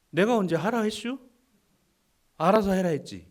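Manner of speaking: 충청도 사투리로 퉁명스럽게; Chungcheong dialect. Retold or imitated. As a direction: play a testy Chungcheong elder. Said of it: "충청도 사투리가 나니까".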